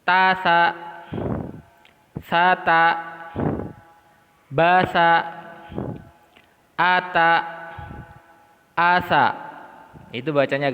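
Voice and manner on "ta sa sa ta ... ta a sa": brisk drill read; quick reading. Shown as a demonstration. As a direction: rattle off the pairs briskly. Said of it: "Kita baca agak cepat".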